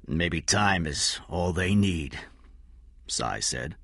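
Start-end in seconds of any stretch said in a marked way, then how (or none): 0.1-2.2 quiet, slow sadness; sad. Acted. Cy answers Corella, quiet and sad. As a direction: let it drop softly. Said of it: "a sadness in his voice".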